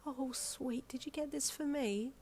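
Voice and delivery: whispered, tender and hushed; hushed whisper over a small gift; soft whisper. Acted. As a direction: breathe it, moved almost to tears. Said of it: "she asked softly".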